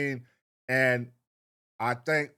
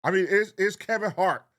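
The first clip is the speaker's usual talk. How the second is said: indignant; 5 semitones higher, 4 dB louder than usual. Real, not acted. Indignant rhetorical question to viewers.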